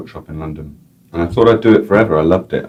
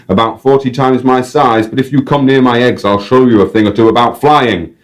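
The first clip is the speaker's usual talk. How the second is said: put-on announcing with pride in a Northern English accent; grand crowd address in a Northern English accent; 4 semitones higher, 4 dB louder than usual. Guide presenting the crow, Northern English accent. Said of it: "random North English accent".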